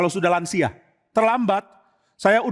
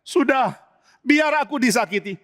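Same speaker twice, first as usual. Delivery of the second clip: Tamar resigned; 5 semitones higher than usual. Acted. Tamar gives up.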